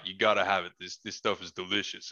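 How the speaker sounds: lightly imitated deep-voiced roommate; Richard's deep voice. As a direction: offer it in a lightly put-on low voice. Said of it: "You know how deep his voice is".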